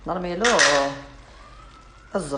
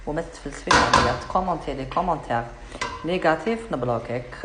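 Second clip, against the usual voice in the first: scolding; 3 dB louder than usual. Real, not acted. Telling off a know-it-all viewer.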